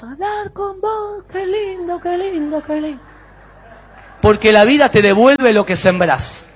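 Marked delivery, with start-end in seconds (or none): 0.0-3.0 high, soft, trailing repeats; fading echo. Acted. Mountain answers the boy's kind words, echoing. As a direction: echo it back, fainter and fainter.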